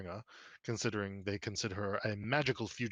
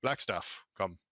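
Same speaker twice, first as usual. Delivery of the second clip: Mert; 2 semitones higher than usual. Acted. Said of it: "you can hear Mert saying".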